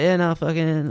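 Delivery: retold Aussie slang, kept casual. Coded reply to a worried friend on the phone, Aussie slang. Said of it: "through this Aussie slang".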